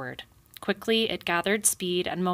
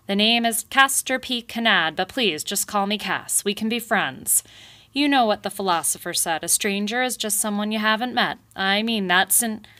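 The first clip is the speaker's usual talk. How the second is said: blustering beaver boss; 4 semitones higher, 5 dB louder than usual. Acted. Beaver boss smooth-talking porcupine.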